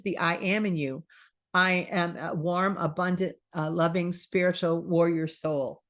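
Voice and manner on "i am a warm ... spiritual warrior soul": slow, earnest I-am affirmation; sincere slow mantra. Shown as a demonstration. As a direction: savour each word of the affirmation slowly. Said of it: "the one you should be repeating".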